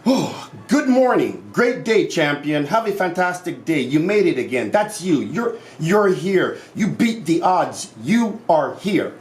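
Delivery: eager wake-up cheer to yourself; cheerful self pep talk. Pretend. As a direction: greet yourself like a champion at dawn. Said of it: "you wake up in the morning".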